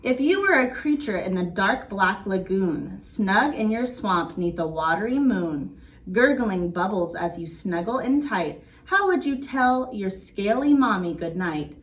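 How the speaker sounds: put-on sing-song read-aloud rhythm for kids; bedtime story reading. Reading a bedtime rhyme to little kids, gentle sing-song.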